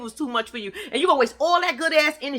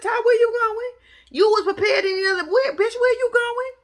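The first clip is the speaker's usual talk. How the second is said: high squealing laugh-shout through the words; 11 semitones higher, 4 dB louder than usual. Real, not acted. Laughing at Ty on the show, calling out where she's going. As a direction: crack up while calling out to Ty.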